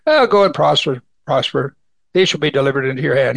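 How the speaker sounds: mocking go-ahead, light and quick at the end; sarcastic. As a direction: toss it off as a sneering brush-off. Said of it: "And he said sarcastically".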